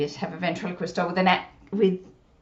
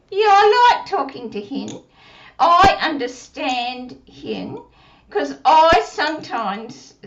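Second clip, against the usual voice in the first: put-on puppet child voice; 4 semitones higher, 4 dB louder, slower than usual. Puppet Susie speaking.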